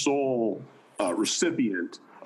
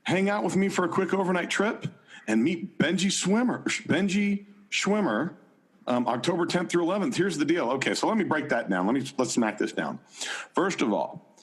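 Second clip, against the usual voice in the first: higher, upbeat pitchman voice; John Dehlin voice; 5 semitones higher than usual. Acted. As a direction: sell it like an eager podcast host. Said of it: "in your John Dehlin voice".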